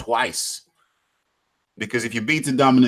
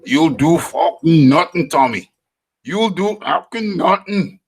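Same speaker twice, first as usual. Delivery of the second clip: high, hammed-up taunt; mock taunt; 6 semitones higher, 4 dB louder than usual. Streamer taunting Tommy, hammed-up high voice. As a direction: throw out a high-pitched mock challenge. Acted taunt at a named viewer.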